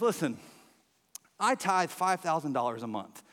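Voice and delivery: unruffled joke punchline, dropping at the end; understated, matter-of-fact reassurance; calm buddy. Acted. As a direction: play the calm castaway delivering the punchline. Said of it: "his buddy is just all calm".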